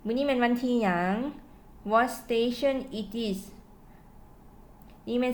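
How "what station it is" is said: slow model sentence. Shown as a demonstration. Teacher to students giving an example, very slow. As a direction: read it out slowly for learners to copy. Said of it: "ตัวอย่าง".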